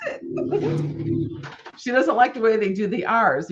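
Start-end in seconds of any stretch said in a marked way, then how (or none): 0.1-1.4 slow, very high laughing whine of a fed-up sister; mocking sister. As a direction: stretch it out high and whiny through a laugh. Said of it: "She goes".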